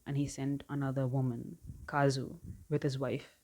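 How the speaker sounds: loud, deliberate read-out from a book; reading aloud. Real, not acted. Reading a book line out to viewers, emphatic read-aloud. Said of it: "I'll read it out to you".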